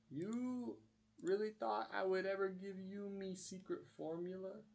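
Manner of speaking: high-pitched cartoon gloat; Mister Krabs. Krabs springs his trap on Plankton, hammed-up gloat. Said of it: "Mister Krabs flicks on the lights and he goes".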